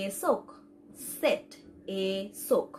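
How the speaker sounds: এসোক beginning with 'eh' as in সেট; model pronunciation. Shown as a demonstration. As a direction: say এসোক carefully, 'eh-sok'. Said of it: "এ তালিং দিয়ে আমরা বলতে পারি". (সেট-এর এ দিয়ে এসোক উচ্চারণ)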